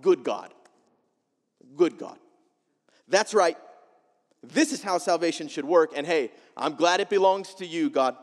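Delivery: "Good God" said with satisfied, nodding approval; smug approval. Retold or imitated. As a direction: pat God on the back, pleased with yourself. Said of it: "Jonah thought".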